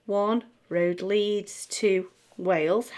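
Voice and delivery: One road leads to Wales in steady, slightly slow, even beats; even basic rhythm. Shown as a demonstration. Teacher demonstrates the basic rhythm to students, steady even beats. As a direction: tap out the plain rhythm evenly. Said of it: "we could do exactly the same again".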